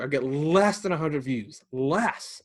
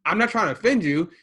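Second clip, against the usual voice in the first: backpedaling; 6 semitones higher, 5 dB louder than usual. Retold or imitated. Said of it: "he's kinda backpedaling a little bit".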